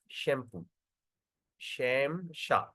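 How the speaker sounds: shampoo said slowly with a clear SH at the start; pronunciation demo. Shown as a demonstration. Teacher shows students how S with apostrophe sounds, pronunciation demo. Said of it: "how we pronounce? We pronounce as".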